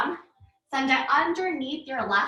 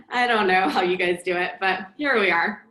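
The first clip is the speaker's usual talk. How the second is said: laughing; 2 semitones lower, 4 dB louder than usual. Real, not acted. Laughing at own breathlessness.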